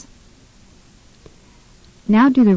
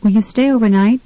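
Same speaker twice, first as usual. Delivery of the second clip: "overnight" stressed on NIGHT, rising; third-syllable stress; 2 semitones higher, faster than usual. Shown as a demonstration. Tutor models a question about staying, stress on NIGHT in "overnight". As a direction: ask it with the weight on the end of "overnight". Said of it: "use the correct stress".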